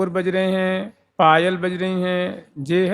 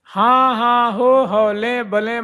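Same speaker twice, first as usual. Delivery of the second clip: higher hushing हाँ हाँ, हो हो; hushing the sakhis; 4 semitones higher, slower than usual. Retold or imitated. Elder sakhi hushing the chattering friends, higher-pitched. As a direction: shush the friends urgently but lovingly. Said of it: "मतलब धीरे धीरे बोलो".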